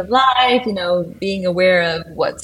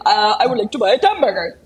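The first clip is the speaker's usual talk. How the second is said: put-on French accent; faster than usual. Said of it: "French accent".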